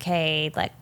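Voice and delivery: soft, low, lightly voiced comforting mother; motherly reassurance. Mom reassures her crying son after confronting him, retold motherly reassurance. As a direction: retell a mother gently calming her child. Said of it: "connect to her own human motherly self".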